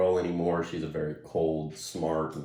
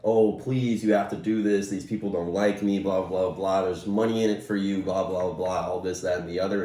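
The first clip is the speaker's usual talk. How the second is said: loosely imitated begging, a bit raised; mock pleading; 2 semitones higher, 4 dB louder than usual. Retelling a doomed man begging Lucy for help, mock pleading. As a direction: toss off his pleas as patter. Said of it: "he was begging and pleading".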